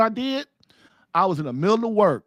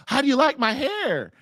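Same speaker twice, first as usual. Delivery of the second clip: mimicking wife; 7 semitones higher than usual. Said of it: "looks at me and says".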